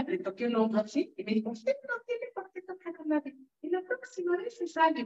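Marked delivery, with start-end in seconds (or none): 1.5-5.0 stern judge rebuke. Retold or imitated. Retold judge scolding her.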